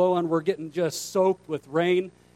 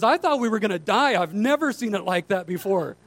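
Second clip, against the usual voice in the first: raised, animated mock fright; retold alarm; 5 semitones higher than usual. Boat driver confessing to stunned pastor, mock alarmed. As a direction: insist on it in comic alarm.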